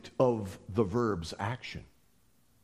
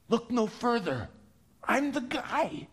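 casual Jesus voice; 9 semitones higher than usual. Acted.

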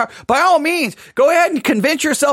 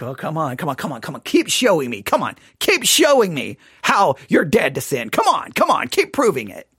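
mock taunting; 5 semitones lower than usual. Taunting angry critics.

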